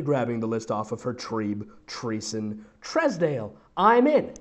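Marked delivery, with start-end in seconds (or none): 3.8-4.3 high, excited exclamation; understated scream of joy; mild mock scream. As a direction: let the pitch leap in acted joy. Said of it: "I screamed".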